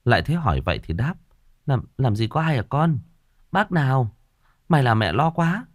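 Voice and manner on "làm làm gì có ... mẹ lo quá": higher-pitched motherly reassurance; mother soothing away her own worry; relieved but worried. A narrator's reading. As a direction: answer the child, relieved yet still uneasy. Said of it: "vừa mừng vừa lo".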